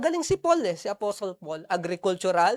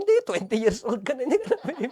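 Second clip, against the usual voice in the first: parent laughing while scolding; mock scold dissolving into a laugh; laughing retort; faster than usual.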